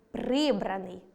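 прибраний with stress on the first syllable ПРИ; stress on the root. Shown as a demonstration. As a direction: lean low on ПРИ in прибраний. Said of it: "наголос на корені". (наголос на першому складі: прИбраний)

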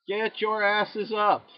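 slow, loud, drawn-out command; shouting order. Real, not acted. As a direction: bark it out slowly at the team. Urging downed teammates.

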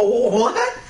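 high, slow mock-girly scoff; mock indignant girl, high-pitched; imitating the other girl. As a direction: play the offended girl, high and drawn out. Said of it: "now the other one".

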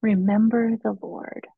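slow, slightly lifted call of comfort; retold call to hearten someone, each word drawn out; comforting, encouraging call. Peter calls to his wife before her death, comfortingly and encouragingly. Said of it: "comfortingly and encouragingly. He called out to her".

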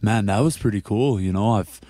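mock Canadian accent, lightly done; a light Canadian lilt for a farm kid. Roommate telling teammate, in a light Canadian accent. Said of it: "I'll do the Canadian accent".

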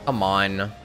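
normal talking voice

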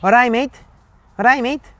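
put-on a touch of Liverpool accent, greeting a mate; Scouse greeting. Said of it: "te dicen".

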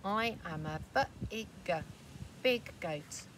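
lightly voiced big goat; proud and sure, hinting at size. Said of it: "says the wee tiny one here".

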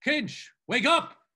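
high, loud, slow wake-up call; drawn-out rousing shout. Acted. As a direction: holler to rouse a friend. Calling a friend to attention.

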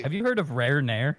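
bad Australian accent. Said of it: "a really bad Australian accent".

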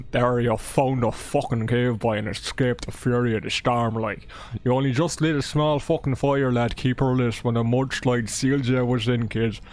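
put-on reading the game's intro in a light Scottish accent; a hammed-up Scottish storyteller voice, loosely held. Streamer reads the Daggerfall intro to chat in a Scottish accent. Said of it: "That was definitely Scottish".

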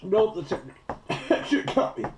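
pained yelp. Real, not acted. Eating ghost peppers, burning mouth.

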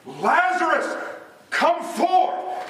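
high, megaphone-like call; Jesus. Retold or imitated. Preacher voicing the command at Lazarus's tomb, calling out. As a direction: call it out in two separate bursts. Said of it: "just like a megaphone, he shouted".

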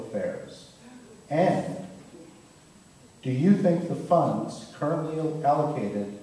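ominous film trailer narration; sinister trailer voice. Shown as a demonstration. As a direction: read it like a dark trailer. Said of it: "no, more sinister".

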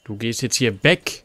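loud commanding yell; shouting. Real, not acted. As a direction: order it away forcefully. Commands enemy during chase.

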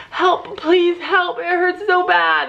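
high, very slow pleading with a laugh breaking through; retold pained cry. Retelling the fall to viewers, she replays her high drawn-out cry of pain. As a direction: stretch the plea out, half laughing at the memory. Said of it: "I would be like".

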